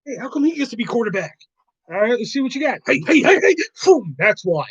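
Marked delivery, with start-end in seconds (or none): 0.1-3.6 high, fast whining reenactment; hammed-up movie replay; movie quote replay. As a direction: rattle off the scene gleefully.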